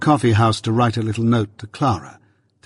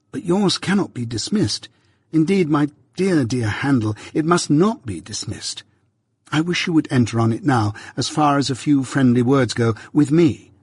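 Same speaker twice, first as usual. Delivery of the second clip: put-on lightly raised, eager young man's voice; earnest young friend; 4 semitones higher than usual. A friend coaxing his friend to plan ahead, slightly higher. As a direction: press him kindly, a touch higher. Herbert presses Pip kindly.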